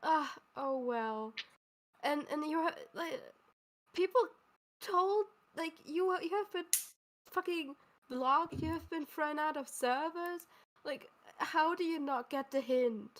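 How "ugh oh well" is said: play-acted weary, dismissive sigh, couldn't-care-less. Calling out another speaker for not caring, imitating someone sighing dismissively. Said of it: "you just keep sighing, be like".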